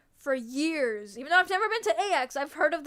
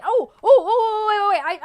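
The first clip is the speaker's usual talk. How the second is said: loud sudden oh oh oh, higher pitch; excited interruption; 5 semitones higher, 9 dB louder than usual. Real, not acted.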